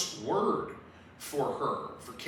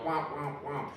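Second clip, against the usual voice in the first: puppet mouth noise; 4 dB quieter than usual. Retold or imitated. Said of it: "and you go".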